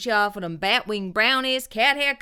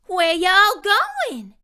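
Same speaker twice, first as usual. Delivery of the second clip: higher, louder, slow call out; yelling call; 8 semitones higher, 6 dB louder, much slower than usual. Acted. Curly Locks yells to fleeing folks, loud slow call. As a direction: call across the street. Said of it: "she yelled".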